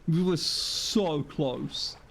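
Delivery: slow lament with a stretched SO; drawn-out lament. Real, not acted. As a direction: stretch "so" in dismay. Lamenting a narrow miss.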